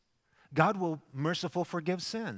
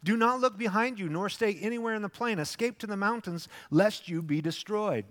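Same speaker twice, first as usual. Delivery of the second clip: higher, commanding urgent call; angel's warning; 5 semitones higher than usual. Acted. The angel ordering Lot to flee the city, urgent. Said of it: "This is the angel speaking".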